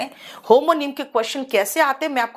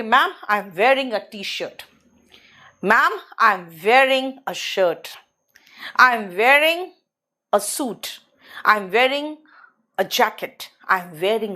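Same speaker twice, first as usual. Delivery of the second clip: slow, drawn-out student reply; mock student answer; 2 semitones lower, much slower than usual. Teacher imitating students answering her, slow recital. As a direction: drag it out like a pupil reciting. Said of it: "आप कहोगे".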